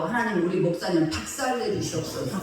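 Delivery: half-laughing mock prayer against the pastor; a lightly voiced grumbling believer, praying in jest; mock petty prayer. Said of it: "그렇다고 또 나한테 또 부당해갖고". (목사님을 원망하는 신도의 장난스러운 기도)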